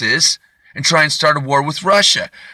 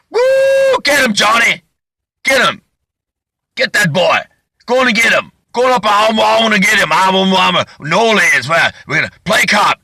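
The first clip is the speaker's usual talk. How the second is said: high, hollering New Orleans cop yell; Steven Seagal; 7 semitones higher, 4 dB louder than usual. Retold or imitated. Action star screaming to his partner in a cop car, high whooping yell. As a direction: whoop and shout the chase orders wildly. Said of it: "he's screaming".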